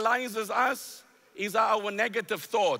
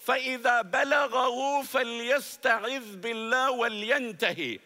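fast, raised call of the hadith; forceful recitation; 2 semitones higher, much faster than usual. Real, not acted. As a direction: proclaim the Arabic with fervor.

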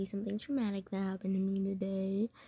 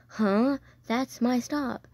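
louder, puzzled "huh", then slower insistence; retold confusion; 3 semitones higher, 4 dB louder, slower than usual. Student tells substitute driver the stop is theirs, confused.

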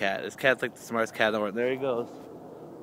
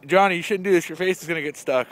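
lightly voiced higher nagging; mock scolding; 5 semitones higher, 4 dB louder than usual. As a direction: imitate a scolder, pitched up. Voices someone scolding him.

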